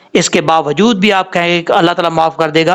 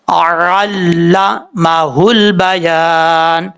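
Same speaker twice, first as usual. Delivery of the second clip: slow drawn-out tajweed chant; Quran recitation; much slower than usual. Shown as a demonstration. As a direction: recite it slowly and melodically. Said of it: "اس طریقے سے". (آہستہ تجوید کے ساتھ تلاوت)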